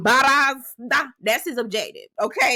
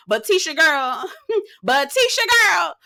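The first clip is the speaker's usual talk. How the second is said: high, laughing call; real giggling address to Tisha; 7 semitones higher, 3 dB louder than usual. Real, not acted. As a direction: break into laughter mid-sentence.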